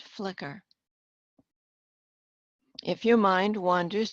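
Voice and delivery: measured guided imagery with long pauses between phrases; guided relaxation. Acted. Hypnotherapist guides listeners to picture a candle flame, guided relaxation. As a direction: lead the listener gently into focus, pausing after each instruction.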